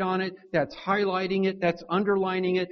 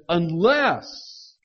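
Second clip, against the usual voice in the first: Unless called out loud and drawn; a declared Unless; stressed Unless; 7 dB louder than usual. Shown as a demonstration. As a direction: ring out the word Unless. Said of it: "declaring its absolute necessity".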